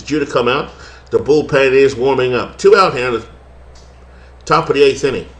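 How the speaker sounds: light put-on twang on the game call; twangy play-by-play. Broadcaster back to his twang for the play-by-play. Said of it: "I can't do it until I twang it again".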